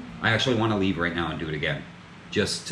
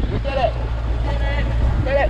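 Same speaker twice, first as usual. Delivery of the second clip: high excited repeated cheer; triumphant cheer; 7 dB louder, faster than usual. Real, not acted. Arriving after crossing.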